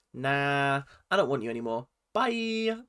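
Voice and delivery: breezy retold brush-off; hammed-up casual dumping; mock dismissive. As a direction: toss it off with a jaunty bye. Mock dismissive breakup in retelling.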